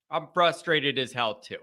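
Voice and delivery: low, soft, resigned repeat; subdued frustration. Real, not acted. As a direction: admit frustration quietly, almost to yourself.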